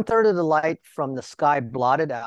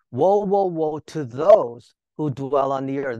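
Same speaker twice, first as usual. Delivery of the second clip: eagle's loud warning; 6 dB louder than usual. Acted. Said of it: "Here's an eagle".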